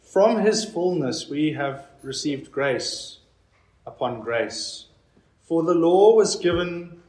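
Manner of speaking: slow, measured reading voice; scripture reading. Acted. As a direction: read each phrase with weight. Reads the scripture passage aloud.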